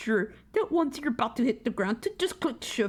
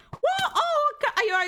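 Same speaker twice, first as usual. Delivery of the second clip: high panicked yelp; scared horror game streamer; slower than usual. Real, not acted. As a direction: still rattled, blurting in alarm. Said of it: "Why did that jump scare me so hard?".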